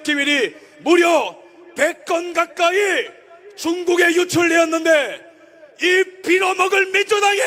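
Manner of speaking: fiery political rally speech; roaring rallying speech. Acted. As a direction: shout it to the crowd.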